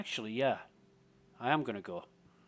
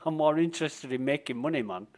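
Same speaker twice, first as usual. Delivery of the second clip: louder, higher, impatient retort to his mate; mock fed-up, a bit raised; retold brusque rant; 4 semitones higher, 5 dB louder than usual. Dismissing Bushy's sightseeing idea, louder and impatient. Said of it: "I'm like".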